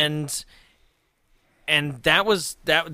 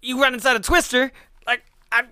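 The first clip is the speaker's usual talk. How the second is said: higher, louder menacing retold quote; mock threat; 10 semitones higher, 6 dB louder, faster than usual. Retelling a rival's threat to a friend, higher mock menace. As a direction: ham up a warning that he's doomed.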